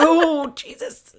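high, slow shocked gasp of words; drawn-out startled exclamation. Retold or imitated. Retold shocked reaction.

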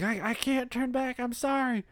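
high-pitched mock plea; Blade. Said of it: "And so Blade's like".

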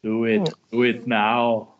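a slow, coaxing tempter; evil inner voice. Pretend. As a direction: egg them on like a devil. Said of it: "the evil voice in your head".

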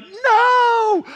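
put-on high, loud child's refusal; screaming kid's no. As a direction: yell it like a four-year-old fighting. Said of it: "Molly would be like".

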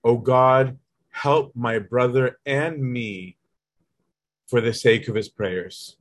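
slow, drawn-out plea to God; slow earnest prayer. Retold or imitated. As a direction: pray each word slowly and earnestly.

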